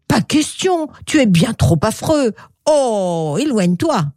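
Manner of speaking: mildly disgusted storybook refusal; a touch of revulsion; brusque rejection. Acted. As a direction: send the ugly creature away. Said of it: "parfois sans ménagement et même avec brutalité".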